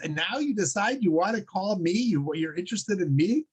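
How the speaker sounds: amused, incredulous heavenly voice, laughing as it scolds; the voice of God mocking the atheist's call for help. God answers the atheist from heaven with mock disbelief, laughing. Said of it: "a voice comes out and says".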